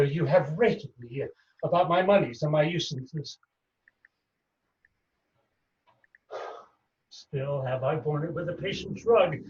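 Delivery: measured stage delivery of a wronged moneylender; stage verse with long pauses; Shylock monologue. Acted. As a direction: play an aggrieved Shylock, lightly voiced.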